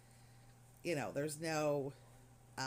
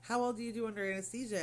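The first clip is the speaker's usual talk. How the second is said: excited doctor voice; 5 semitones higher, 5 dB louder than usual. Retold or imitated. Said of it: "And he's like".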